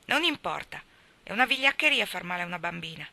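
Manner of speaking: mild reproving tone; a hint of a lecture; reproachful. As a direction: scold him gently for hurting a girl. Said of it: "in tono di rimprovero".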